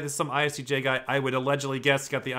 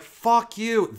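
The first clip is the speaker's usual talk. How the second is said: angry defiance; 7 semitones higher than usual. Retold or imitated. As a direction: throw it back at the school, half-shouted. Parents uniting against school.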